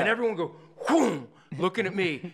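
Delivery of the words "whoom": sudden punched whoosh noise; quick imitated whoosh; whoosh sound effect. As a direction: voice a crowd's heads whipping round. Imitates everyone turning to look.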